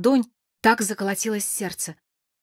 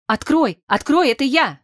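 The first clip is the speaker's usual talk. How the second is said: higher, urgent call through a door; insistent, raised-voice plea; muffled cry; 7 semitones higher, 5 dB louder than usual. A narrator's reading. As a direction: call out to be let in, pitched up and louder. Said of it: "раздался приглушённый крик".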